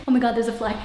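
normal talking voice

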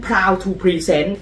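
drawn out very slowly, like a proud showman; a slow proud showman's unveiling of the new shirt; grand announcement. Acted. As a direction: stretch each word out for a big reveal.

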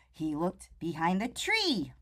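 hushed suspense whisper. A narrator's reading. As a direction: breathe it like a secret to kids. Searching suspenseful storytelling.

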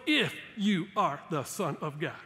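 lightly voiced tempter, word by word with pauses; a hint of the devil, each word set apart; taunting devil. Devil challenging Jesus in the desert, taunting. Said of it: "He goes".

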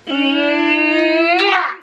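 loud smacking air kiss; loud kiss sound. Real, not acted. She blows viewers a kiss on three. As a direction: blow a big kiss.

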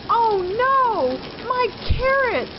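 high loud wail over carrots; crying out. A narrator's reading. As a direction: cry out in despair. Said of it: "cried Rabbit".

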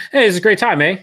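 chirpy Canadian, "eh?" after each sentence; imitated Canadian. Retelling a Canadian guy in a grocery line, imitated Canadian. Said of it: "talked to a guy".

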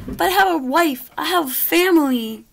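high pleading pig voice; begging pig. Acted. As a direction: beg with a catch of panic.

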